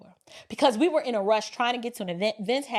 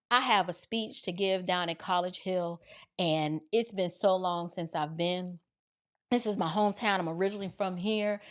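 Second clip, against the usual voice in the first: lower, softer, measured explanation; articulate, well-spoken; 6 semitones lower, 5 dB quieter than usual. Retold or imitated. Driver explaining his speech to the officer, well-spoken. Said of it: "Articulate, well-spoken".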